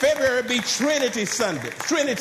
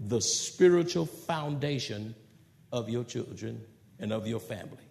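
softer first take; 6 semitones lower, 5 dB quieter than usual. Shown as a demonstration. Preacher to fathers, quietly. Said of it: "I say it again".

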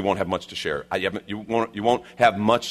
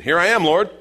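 loud, higher answer to a summons; calling back; 8 semitones higher, 7 dB louder than usual. Acted. Ananias answers the Lord in a vision, calling back. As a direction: answer up and out, rising at the end.

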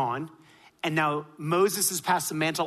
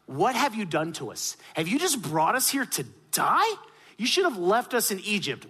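higher, mildly indignant crowd protest; retold outcry; 4 semitones higher than usual. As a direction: imitate people crying out to their leader. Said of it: "They started crying out to Moses".

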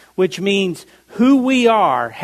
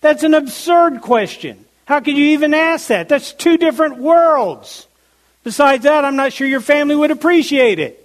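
higher and quicker, scoffing at a silly question; incredulous scoff; 5 semitones higher than usual. Retold or imitated. Preacher voicing a listener scoffing at a silly question, incredulous. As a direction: brush it off as absurd. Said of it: "you'd say".

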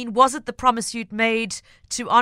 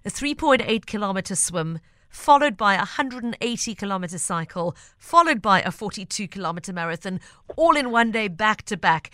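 deliberate slow reading. Shown as a demonstration. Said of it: "I'm gonna say them again more slowly".

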